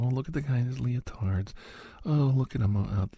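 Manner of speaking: mocking bullies. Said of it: "how people make fun of dancers".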